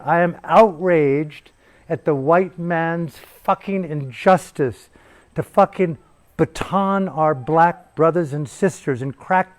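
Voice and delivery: slow, preacherly mock outrage, only lightly voiced; hammed-up civil rights sermon, drawn out; a hint of a rousing preacher's fury; Martin Luther King exaggerated. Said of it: "my exaggeration of Martin Luther King".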